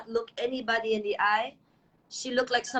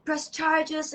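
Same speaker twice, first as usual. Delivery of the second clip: higher-pitched imitation of an upset girl; retold crying; 6 semitones higher than usual. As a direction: echo her tearful distress. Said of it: "And she's crying and".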